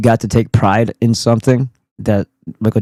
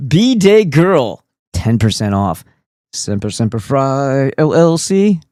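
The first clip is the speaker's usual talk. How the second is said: hammed-up sponsor plug, slowed down; mock ad read; 3 semitones higher, slower than usual. Streamer plugging a sponsor code, hammed-up ad voice. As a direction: sell it like a cheesy ad spot. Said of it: "why I said it like that".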